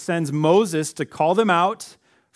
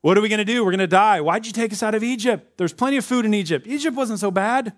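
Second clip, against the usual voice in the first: hammed-up complaint to Moses; complaining Israelites; 5 semitones higher than usual. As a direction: people pleading with Moses in the desert, mock whiny. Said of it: "crying out to Moses".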